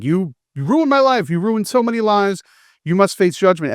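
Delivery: lightly voiced vengeful father; mock stern accusation.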